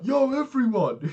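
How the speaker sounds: loud, high hammed-up call to a crowd; mock announcement shout. Pretending to tell the whole restaurant, mock shouting. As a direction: pretend to holler for everyone's attention.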